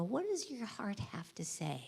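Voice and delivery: soft tender whisper at a hospital bed; whispered to sick kids. Retold or imitated. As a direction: gently hush it to a scared child. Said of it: "take my little stethoscope and go up and go".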